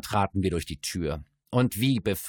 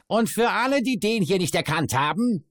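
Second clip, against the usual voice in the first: high, loud rowdy bawl; bawling dwarf voice; 11 semitones higher, 5 dB louder than usual. A narrator's reading. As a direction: announce it to the whole room. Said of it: "krakeelte er".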